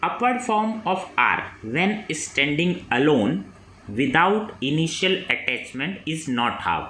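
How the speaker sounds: reads the exam question very slowly, word by word; slow dictation reading. Acted. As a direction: dictate it so students can write. (प्रश्न धीरे-धीरे बोलकर लिखवाना)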